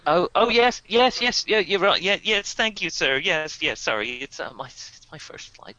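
jittery American air hostess on her first flight; nervous American stewardess. Acted. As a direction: babble anxiously in an American accent. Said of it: "stewardess is very nervous".

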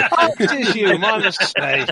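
high-pitched acted surprise; mock recognition. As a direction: play a sudden "oh, it's you" apology. Acted belated recognition of the doorman.

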